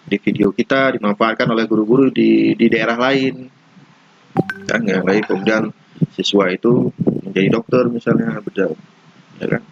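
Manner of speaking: fan noise behind the voice; talking right next to a whirring fan. Real, not acted. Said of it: "terlalu dekat dengan kipas angin".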